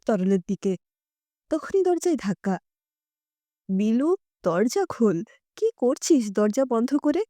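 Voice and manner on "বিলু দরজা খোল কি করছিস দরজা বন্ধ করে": mildly anxious, pleading at the door; anxious mother. Acted. Mother calls anxiously to her son behind the locked door, a touch worried. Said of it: "মায়ের উৎকণ্ঠিত গলা".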